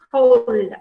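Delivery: "hold" drawn out with weight on it; stressed syllable. Shown as a demonstration. Teacher showing how stress sounds, "hold" stretched with pressure. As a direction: slowly press into "hold", letting it fall. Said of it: "See the way I, uh, uh, pronounce".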